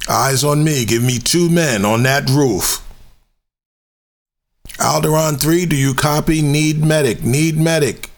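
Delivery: very high, tense squad radio calls; high urgent soldier. Acted. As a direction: bark orders like a frantic trooper. Soldier commands in voice demo.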